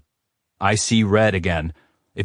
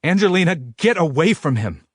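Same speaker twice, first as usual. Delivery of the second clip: father shouts; 9 semitones higher than usual. A narrator's reading. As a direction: call the daughter away. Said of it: "her father shouts".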